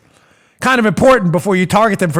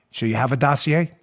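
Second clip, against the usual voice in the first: a hushed, lower take on a spy movie line; mock dramatic; 7 semitones lower, 5 dB quieter than usual. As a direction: play it like a lightly hammed Mission Impossible scene. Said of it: "let's do the drama".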